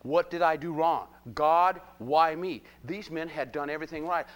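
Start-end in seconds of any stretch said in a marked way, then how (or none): 0.0-2.6 loud, drawn-out plea of protest; mock-anguished appeal; complaining to God. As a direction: cry out to God, stretching the words. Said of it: "the first thing we normally do is go".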